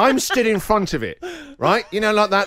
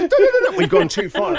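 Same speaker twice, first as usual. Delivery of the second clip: Jason Bourne spoof; 14 semitones higher, 4 dB louder, faster than usual. Retold or imitated. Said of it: "that Jason Bourne where you go".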